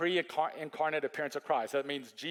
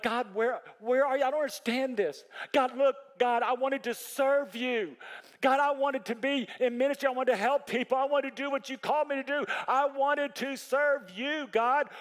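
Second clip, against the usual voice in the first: pleading cry to God; 7 semitones higher than usual. Retold or imitated. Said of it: "I'm like".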